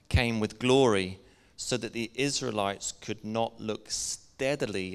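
slow, deliberate public reading with pauses between phrases; measured Bible reading to a congregation; slow scripture reading. Real, not acted. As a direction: read the passage out slowly, weighting key words. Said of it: "read it sort of slowly".

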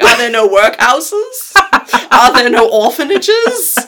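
loud, slow, high indignant Scrooge. Retold or imitated. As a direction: boom it out like Scrooge. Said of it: "he pulls a fucking Scrooge being like".

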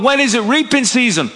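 lightly voiced fed-up grumble; frustrated farmer. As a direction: moan like a worn-out farmer with nothing to show. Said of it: "he's gonna be frustrated".

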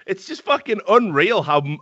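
usual speaking voice

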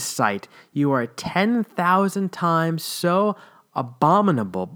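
slow, grave preacher reading a sermon; lightly voiced grim sermon; hellfire sermon quote. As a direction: intone it like an old fire-and-brimstone preacher. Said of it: "put it like this".

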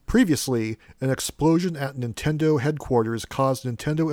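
storybook narration read aloud with drama; dramatic reading. Acted. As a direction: read it like a cheesy serial story. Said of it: "It is a dramatic reading".

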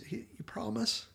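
put-on small, high, soft voice, lightly childlike; little-kid question. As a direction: ask softly like a hopeful little kid. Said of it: "almost like a little kid".

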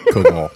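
"Koval" said low, as koh-al; pronunciation demo. Shown as a demonstration. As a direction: say "Koval" with the v swallowed. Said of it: "Say Koval again".

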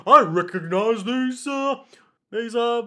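slow, loud, high hesitant reveal; dramatic halting recognition. Retold or imitated. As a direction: drag out the realization dramatically. Imitating character's halting recognition.

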